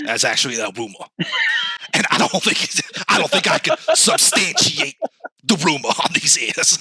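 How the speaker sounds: a hint of a hushed sports pundit; Stephen A. Smith impression. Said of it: "the A is for A S M R".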